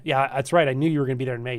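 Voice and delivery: usual speaking voice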